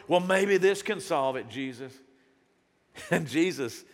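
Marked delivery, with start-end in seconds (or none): 0.1-1.9 sarcastic. Acted. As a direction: offer it with pointed sarcasm. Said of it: "There's that sarcasm".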